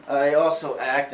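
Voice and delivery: slow emphasis landing on act; stress on act. Shown as a demonstration. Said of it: "I stress the word act".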